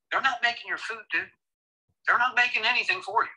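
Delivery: not hit sharply high; they're "not" making, with "not" punched high and hard; stress on NOT. Real, not acted. Insisting to co-host that servers don't cook, stressing "not".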